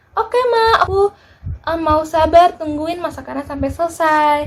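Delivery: lightly voiced, high good kid; patient child. Good child telling mama they'll wait, lightly high sweet voice. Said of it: "adik-adik sabar menunggu".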